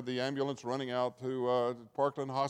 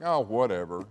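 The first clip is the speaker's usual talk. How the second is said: dismissive whatever; 4 semitones lower, 5 dB louder than usual. Retold or imitated. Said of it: "we're just slacking".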